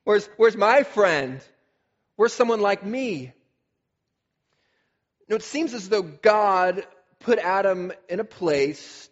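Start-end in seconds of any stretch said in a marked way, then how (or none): 0.0-3.3 dawning realization. Retold or imitated. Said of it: "it should have been obvious to Adam".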